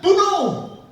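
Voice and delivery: king condemning the priests; shouted order. Acted. Saul orders execution.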